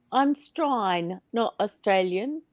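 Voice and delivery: a mild broad Australian accent, vowels drawn out. Shown as a demonstration. Showing the chat a broad Australian accent, mildly done. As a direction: lean lightly into broad Australian "strine". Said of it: "that's a really broad Australian accent".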